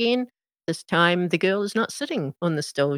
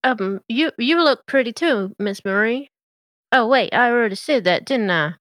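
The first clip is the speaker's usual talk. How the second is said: Mater voice; 4 semitones higher, 3 dB louder than usual. Acted.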